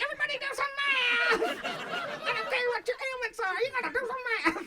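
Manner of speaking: laughing mock decree; mock math monster. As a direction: bark math orders like a monster. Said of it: "math monsters just walking around like".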